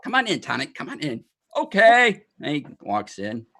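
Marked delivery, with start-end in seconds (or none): 0.0-1.2 gnome welcome. Acted. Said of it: "And he's like". 1.6-2.2 high, loud Warforged okay; loud robot okay. Acted. Warforged answering gnome, loud and high.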